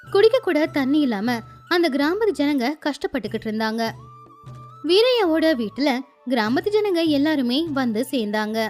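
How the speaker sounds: plain reading voice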